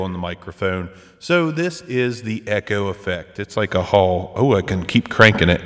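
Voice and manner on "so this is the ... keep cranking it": big hall echo on the voice; crooning into a cavernous echo; digital echo. Real, not acted. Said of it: "I enabled the echo".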